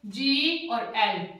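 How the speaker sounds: slow letter by letter; spelled out slowly. Shown as a demonstration. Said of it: "मैंने बताया ये vowels". (धीरे धीरे अक्षर बोलना)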